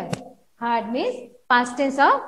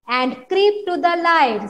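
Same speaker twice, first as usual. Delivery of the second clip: calling; 3 semitones higher, 4 dB louder, slower than usual. Acted. Teacher voicing the sun.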